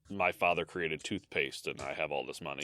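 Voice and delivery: a hint of posh English; posh English accent. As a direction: sound like a spoiled rich heir. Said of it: "type accent".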